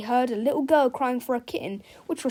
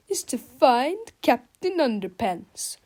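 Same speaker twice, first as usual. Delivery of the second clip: slow, louder sneering villain; 3 semitones higher, 5 dB louder, slower than usual. A narrator's reading. Melvin plots to capture the hero, sneering slowly. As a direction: gloat over the plan. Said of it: "he sneered with a sneer".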